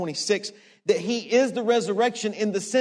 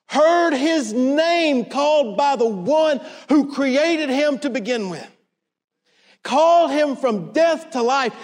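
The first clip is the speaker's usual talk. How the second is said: impassioned preaching; 5 semitones higher than usual. Real, not acted. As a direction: preach the miracle with rising fervour. Preacher builds up the raising.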